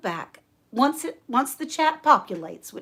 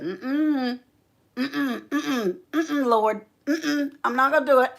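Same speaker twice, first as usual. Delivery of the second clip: acted-out reluctant refusing; higher-pitched balking, imitating a friend; stubborn refusal; 4 semitones higher than usual. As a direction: dig in and refuse, lightly acted. Acts friend refusing the Lord.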